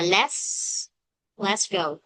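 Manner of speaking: "let's go" with no t, "les go"; dropped t. Shown as a demonstration. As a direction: leave the t out of "let's". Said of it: "Nó chỉ đọc là".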